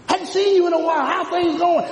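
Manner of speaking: high, loud, cheery imitated hello; preacher voices a friend meeting someone again, cheery and loud; mock friendly greeting.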